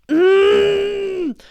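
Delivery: high, loud closed-mouth squeal; long overwhelmed hum-scream; frustrated squeal. Real, not acted. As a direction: squeal through closed lips. Wordless overwhelmed reaction to show.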